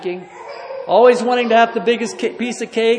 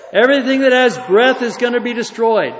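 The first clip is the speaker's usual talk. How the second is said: preaching; 3 dB louder than usual. Acted. Revival preaching at full force.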